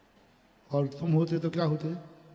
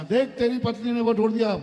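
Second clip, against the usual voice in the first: angry father; 3 semitones higher, 4 dB louder than usual. Retold or imitated. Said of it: "बाप को गुस्सा".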